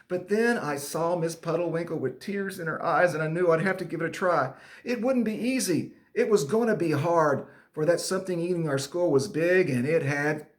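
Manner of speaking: lively, emphatic read-aloud; children's story narration. Acted. Teacher reading students a school monster story, animated narration. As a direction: tell it big for the kids.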